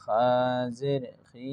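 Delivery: "খা জের খি" spelt out with a held final vowel; name letter and sign, then sound "খি"; spelling-out demo. Shown as a demonstration. Teacher showing pupils how to read, measured spelling-out. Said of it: "এইরকম পড়ে যাইবা".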